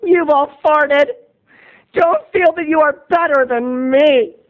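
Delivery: high, slow indignant outburst; wished-for outburst at the class, high and slow; mock defiance. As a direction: stand up and tell them off. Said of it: "and saying".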